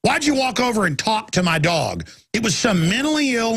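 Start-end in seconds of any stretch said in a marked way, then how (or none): 0.0-2.1 confrontational. Retold or imitated. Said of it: "and I'd be like".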